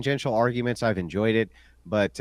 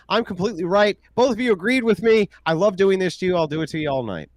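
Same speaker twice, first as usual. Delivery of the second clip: gloating; 6 semitones higher, 4 dB louder than usual. Real, not acted. Gloating over debate opponents.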